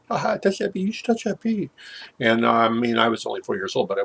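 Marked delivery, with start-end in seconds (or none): 0.1-1.7 taunting dare. Retold or imitated. Neighbor girls daring the boy.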